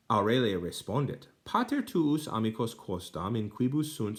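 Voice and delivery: careful, expressive reading of a Latin story; Latin reading aloud. Shown as a demonstration. Reads Latin passage aloud.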